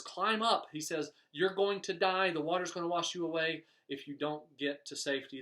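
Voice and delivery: a trooper shouting the preacher to safety; mild mock yell. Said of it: "yells down to the preacher".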